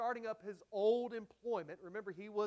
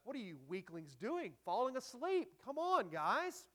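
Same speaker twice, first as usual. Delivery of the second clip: mock rebuke; 2 semitones higher than usual. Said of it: "Boy, he didn't hold back".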